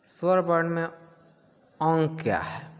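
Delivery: slow drawn-out nasal अं. Shown as a demonstration. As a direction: hold अं long through the nose. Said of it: "इसका उच्चारण नाक से होता है".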